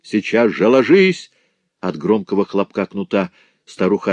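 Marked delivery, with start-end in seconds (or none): 0.0-1.3 much higher, loud barked order; husband ordering the old woman to bed, shouting; shouted command. A narrator's reading. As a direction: bark it at her, sharp and loud. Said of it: "и крикнул".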